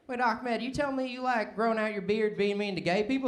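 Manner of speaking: redneck buddy. Acted. Acting out a redneck friend.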